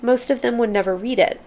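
measured, expressive memoir reading; audiobook narration. Acted. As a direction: read it aloud with careful phrasing and lively emphasis. Reads the memoir aloud.

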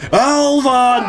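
high, held mock yell; imitated distant yell. Boss heard yelling from the workspace, high mock yell. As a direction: call the name out high and long. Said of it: "hear his voice faintly yelling".

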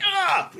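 high, short "Ah!" of frustration; frustrated child's yell. Retold or imitated. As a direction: let out a kid's huff of despair.

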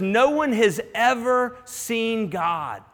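slow, weighty, word by word; unhurried scripture reading; slow quoting. Shown as a demonstration. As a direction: let each word of no one has ever seen God land slowly. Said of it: "when he says".

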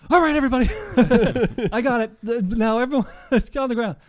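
high loud laughing robber command; mock robber. Nervous robber ordering the bank to the ground, high and loud.

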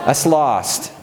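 laughing punchline. Real, not acted.

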